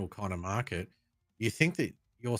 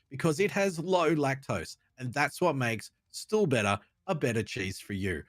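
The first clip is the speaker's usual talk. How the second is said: upbeat radio commercial read; 2 semitones higher than usual. Acted. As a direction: sell it like a radio ad. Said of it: "in my radio voice?".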